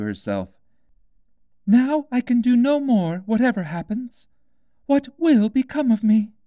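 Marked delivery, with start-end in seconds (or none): 1.7-6.3 put-on high, loud, worried girl's cry; stuck in the house and scared; Alice, frightened. A narrator's reading.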